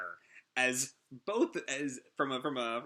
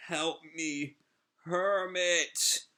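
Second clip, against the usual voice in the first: high, louder cry for help; pleading cry; 5 semitones higher, 4 dB louder, much slower than usual. Acted. Severed head calls to Hermit for help, high pleading cry. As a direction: call out desperately for rescue.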